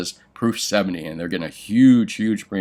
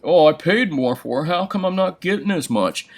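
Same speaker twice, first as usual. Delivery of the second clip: higher, mock-confused customer whine; puzzled customer; 9 semitones higher than usual. Dealer mocking an overpaying buyer, higher puzzled whine. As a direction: play the baffled buyer who overpaid. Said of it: "scratching his head going".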